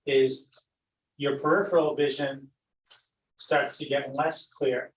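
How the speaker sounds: unhurried meditation guide with long pauses; guided meditation. Acted. Teacher guiding listeners to glide over an imagined valley, unhurried meditation voice. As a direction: lead them gently through the imagery, leaving space between phrases.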